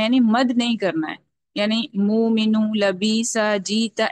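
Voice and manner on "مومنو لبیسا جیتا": مومنو with the hamza dropped into a long vowel; wrong, lengthened vowel. Shown as a demonstration. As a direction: stretch مومنو, لبیسا, جیتا as the wrong example. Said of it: "ایسے نہیں کرنا ہے". (غلط ادائیگی، مد کے ساتھ)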